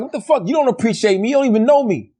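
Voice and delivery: high-pitched, retold outrage; mock indignant. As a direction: act affronted by a stranger's thanks. Acting out offence at a thank-you.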